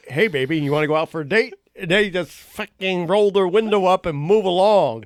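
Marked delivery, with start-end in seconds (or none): 0.1-1.5 lowered voice for a creepy flirting puppet; puppet pickup line. Retold or imitated. Puppet flirting with a driver in traffic, in a lowered pickup voice. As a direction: croon it low like a puppet hitting on someone. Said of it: "I was like".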